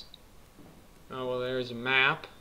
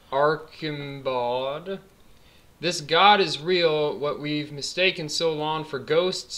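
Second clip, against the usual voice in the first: dramatic reading. Acted. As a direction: read it like a found diary. Reads game note dramatically.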